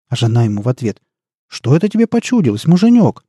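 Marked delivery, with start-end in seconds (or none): 1.5-3.2 high, innocent giantess reply. A narrator's reading. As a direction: play dumb to the giant. Giantess answers husband.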